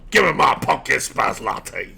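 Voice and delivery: lightly voiced cranky demand; a hint of a grumpy Karen ordering coffee; cranky white girl. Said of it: "like a cranky white girl".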